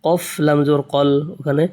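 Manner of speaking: usual speaking voice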